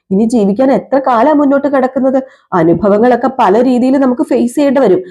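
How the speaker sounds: mildly insistent fatherly encouragement; lightly voiced earnest father. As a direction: lightly act a father reassuring his children.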